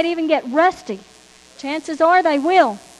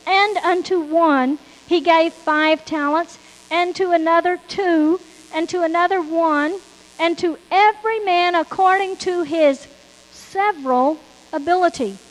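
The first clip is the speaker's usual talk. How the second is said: scripture reading; 3 dB louder than usual. Acted. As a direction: declaim the verse to the congregation. Reads scripture at full force.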